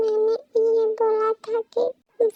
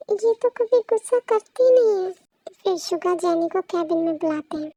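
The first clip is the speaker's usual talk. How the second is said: normal talking voice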